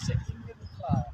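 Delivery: high playful voice. Pretend. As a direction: tease the child brightly. Playful talk to child.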